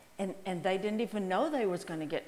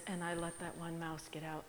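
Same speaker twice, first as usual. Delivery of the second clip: hushed whisper; quietly whispered confession; 4 semitones lower, 10 dB quieter than usual. Real, not acted. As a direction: whisper it like a secret. Whispered aside in story.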